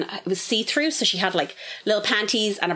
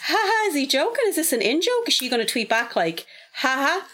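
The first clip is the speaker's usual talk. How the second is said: mock incredulous; 6 semitones higher than usual. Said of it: "people were like".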